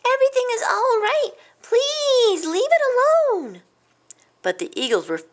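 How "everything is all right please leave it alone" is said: high, loud plea to stop; desperate yelling. A narrator's reading. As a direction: yell up at attackers far above. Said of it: "He yelled up at them".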